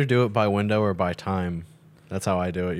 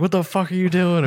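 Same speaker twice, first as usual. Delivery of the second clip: mock angry homeowner; 8 semitones higher than usual. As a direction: bark it at strangers walking through your yard. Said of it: "He's like".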